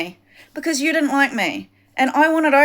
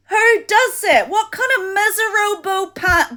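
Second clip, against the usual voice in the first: bitter laugh; 7 semitones higher than usual. Real, not acted. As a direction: scoff it out with a laugh. Distressed rant, laughs in disbelief.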